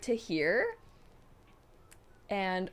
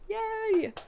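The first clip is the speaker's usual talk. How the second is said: 1 cheer; 12 semitones higher than usual. Real, not acted. Cheering for viewer.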